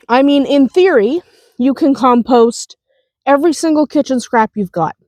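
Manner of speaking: talking around a cough drop; mouth full. Real, not acted. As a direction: speak with a lozenge in mouth. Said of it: "Ignore me if I sound funny. I'm chewing on a Halls".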